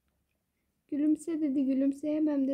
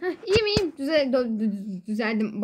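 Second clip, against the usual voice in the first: put-on Rize accent. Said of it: "Babadan kaynaklı düzeleyim".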